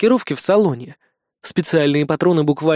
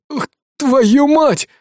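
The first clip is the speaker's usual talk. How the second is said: slow, strained wheeze, pitched up; wheezed curse; 9 semitones higher, 4 dB louder, much slower than usual. A narrator's reading. Thug falls out of the car, wheezing curse. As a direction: squeeze the curse out in pain. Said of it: "просипел он".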